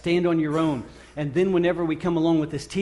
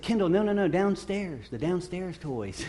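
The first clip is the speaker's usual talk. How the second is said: dad correcting daughter; 3 semitones higher than usual. Retold or imitated. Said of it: "and I said".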